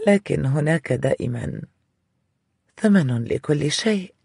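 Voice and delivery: coquettish. Acted. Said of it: "قبل أن تقول بدلال".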